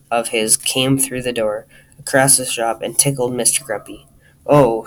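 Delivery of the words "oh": loud, mock startled "oh"; squealed. A narrator's reading. Mister Grumpy gets tickled in the bakery, mild squeal. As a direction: exclaim as if suddenly tickled, without real squealing. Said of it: "squealed Mister Grumpy".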